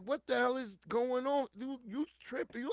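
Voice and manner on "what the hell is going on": shocked, higher and louder; alarmed. Retold or imitated. Parent chasing daughter in panic, alarmed cry. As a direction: blurt it out in alarm.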